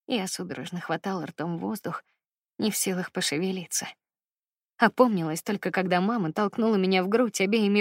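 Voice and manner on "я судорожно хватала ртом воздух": ordinary delivery, nothing marked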